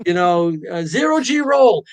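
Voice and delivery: excited shout of coaster moves; yelling ride moves. Retold or imitated. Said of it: "I'd be yelling".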